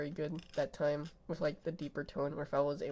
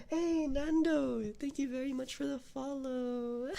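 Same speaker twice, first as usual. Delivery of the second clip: high, loud, drawn-out hello; excited greeting; 6 semitones higher, 3 dB louder, slower than usual. Real, not acted. Streamer greeting follower Nando with a high excited call.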